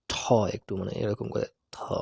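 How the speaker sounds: "ঠ" then "থ", t with a puff of air; breathy English t. Shown as a demonstration. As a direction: show "থ" as an aspirated t. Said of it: "এরকম করে নেওয়ার চেষ্টা করব".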